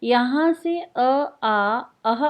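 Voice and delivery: slow, drawn-out अ, आ, अह sounded from the throat; throat vowels demo. Shown as a demonstration. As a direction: say अ and आ slowly from the throat. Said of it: "ये आपका कंठ है".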